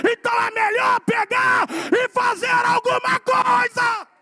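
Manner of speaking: loud, rising, slow preacher's cry; full-force preaching. Acted. Preacher urging the church to work, full-force preaching. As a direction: preach it hard and build.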